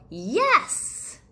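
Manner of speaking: loud, high eager yes; a whole class shouting yes; class cheer. Acted. Children answering their teacher, cheering loudly. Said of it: "the class yelled".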